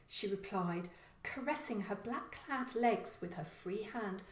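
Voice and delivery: a hint of a sneering young woman; sneering female voice. Killer telling Kevin why she hates Christmas, sneering. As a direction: scorn it, dropping to a whisper on the hate.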